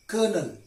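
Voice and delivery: COLONEL as "kernel"; silent L. Shown as a demonstration. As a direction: say COLONEL in two syllables, "ker-nel". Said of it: "L is silent in these words".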